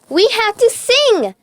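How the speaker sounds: Riley urges everyone to sing, loud and high; shouted. A narrator's reading. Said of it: "shouted Riley".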